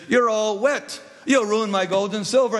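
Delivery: high-pitched mock indignation; indignant refusal. Greed turns Love away from his boat, mock indignant.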